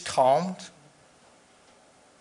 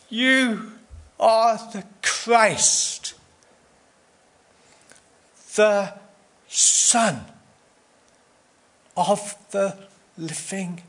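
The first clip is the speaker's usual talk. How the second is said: booming slow proclamation; 5 semitones higher, much slower than usual. Acted. Peter declaring Jesus is the Christ, drawn out and booming. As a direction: proclaim each word like a herald. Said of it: "I'm not sure he said it like that".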